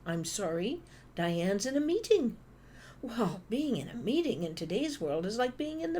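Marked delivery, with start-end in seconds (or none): 0.1-2.4 receptionist brush-off. Retold or imitated. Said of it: "I get an answer like".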